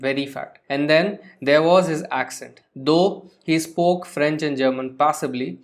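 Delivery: slow, careful reading of the text; reading aloud. Shown as a demonstration. Teacher reading the passage about Osable slowly. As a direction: read it out slowly for the class.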